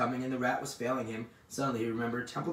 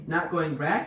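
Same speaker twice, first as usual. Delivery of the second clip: higher, louder startled question; crying out; 5 semitones higher, 6 dB louder, slower than usual. A narrator's reading. Pig leaps up at the bad news, crying out. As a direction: cry out in disbelief, pitch rising at the end. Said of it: "he cried".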